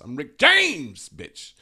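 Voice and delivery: loud, high, drawn-out catchphrase; cocky celebrity catchphrase impression of a singer. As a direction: stretch the name out big, then drop off. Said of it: "this one is, uh, a singer".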